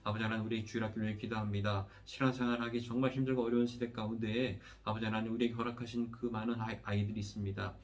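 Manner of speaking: steady, evenly pitched praying voice with little melody; earnest pastoral prayer. Real, not acted. Pastor leading the congregation in prayer after the sermon, earnest prayer. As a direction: pray aloud in long, rolling petitions that settle at each close.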